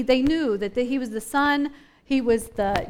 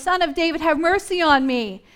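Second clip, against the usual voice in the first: raised, slightly higher voice for the beggar's plea; mock louder yell; 3 semitones higher, 4 dB louder than usual. Blind beggar yelling past those hushing him, moderately raised. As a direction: imitate a yell without going full out. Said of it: "made the man yell even louder".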